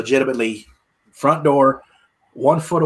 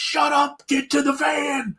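urgent hurry; 14 semitones higher, slower than usual. Retold or imitated. Fleeing with the bottle.

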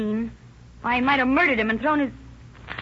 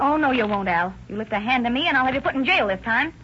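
louder, firm threat; defiant warning; 3 dB louder than usual. Acted. Wife warning her husband off, louder defiant threat. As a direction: stand up to him.

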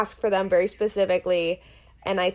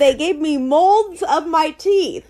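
laughing; 8 semitones higher, 12 dB louder than usual. Real, not acted. Laughing showing teeth molds.

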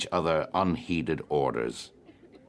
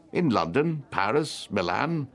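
heated comeback, pitched higher; warmly insistent; 6 semitones higher than usual. A narrator's reading. Tenor answering a challenge about good singers, warmly. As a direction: list them with some warmth, pitch up. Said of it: "said Mister Bartell Darcy warmly".

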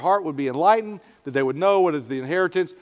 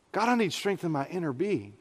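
much softer, sinking plea; quiet prayer; 9 dB quieter than usual. Shown as a demonstration. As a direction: breathe it out, discouraged. Models a prayer of discouragement.

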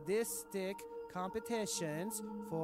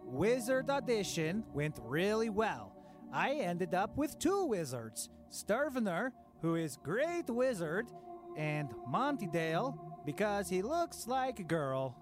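excited; 3 semitones higher than usual. Acted. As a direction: brag about the new wizards. A higher, louder diary entry.

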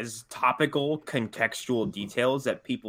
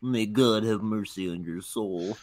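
executioner; 4 semitones lower, slower than usual. Retold or imitated. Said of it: "all he had to say in retort was like".

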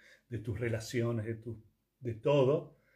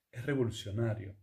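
ordinary talk

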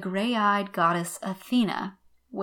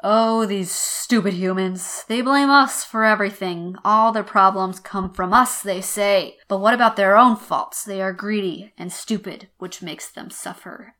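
louder, fed-up Zeus grumbling about humans; exasperated paraphrase; 6 dB louder than usual. Acted. Teacher translating Zeus for students, exasperated and louder. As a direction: roll your eyes at those stupid mortals. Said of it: "Let me translate this".

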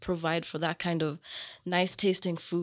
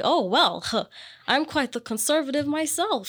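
put-on old lady neighbor; 7 semitones higher, 5 dB louder than usual. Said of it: "So she's just like".

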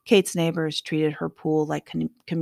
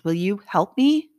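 whiny plea; 4 semitones higher, 6 dB louder than usual. Acted. Boy pleading, hands thrown up.

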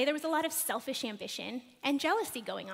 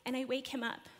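whispered; 8 dB quieter, faster than usual. Real, not acted. Waking sleeping baby at night.

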